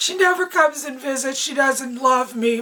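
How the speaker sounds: high, complaining yell, hollered. A grandma re-enacts what she shouted toward the phone, retelling yelling at the phone. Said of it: "I'm yelling towards the phone".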